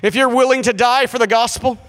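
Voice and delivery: lightly put-on solemn preacher appeal; pastor's altar call. Pastor at a missions meeting calling volunteers, mildly hammed-up solemnity. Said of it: "And the pastor gets up".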